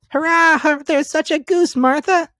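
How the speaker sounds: put-on very high, excited children's cheer; little ones bouncing with joy. A narrator's reading. The young Cratchits tell Martha about the goose, high and excited.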